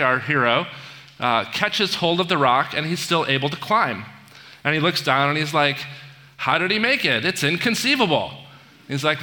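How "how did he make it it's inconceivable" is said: incredulous quote, pitched higher; mock disbelief. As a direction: play the baffled villain, lightly exaggerated. Vizzini's disbelief, acted in retelling.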